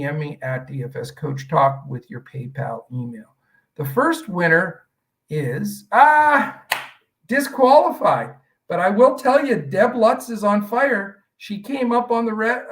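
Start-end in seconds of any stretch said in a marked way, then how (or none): 5.9-6.6 sudden high, loud "ah" of letdown; loud exclaimed "ah". Real, not acted. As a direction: cry out "ah" at a spoiled draw. Raffle winner turns out disqualified.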